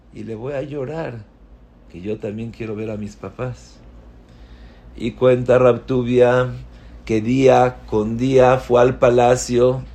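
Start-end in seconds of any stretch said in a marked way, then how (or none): 0.1-3.8 much softer, wistful trailing close; soft longing. Acted. Young Rabtubia longing to see his parents, softly. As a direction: drop to a tender hush. Boy plans to cry.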